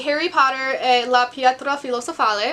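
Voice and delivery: self-conscious Italian accent on Pietra Filosofale; shaky Italian accent, a little unsure; Italian title read aloud. Shown as a demonstration. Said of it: "My accent's horrendous".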